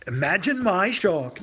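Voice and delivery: half-hearted impression, drawn out and mock-scornful; Paul Joseph Watson. Streamer tries a requested impression for viewers, hammed-up British scorn. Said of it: "can you do your Paul Joseph Watson impression".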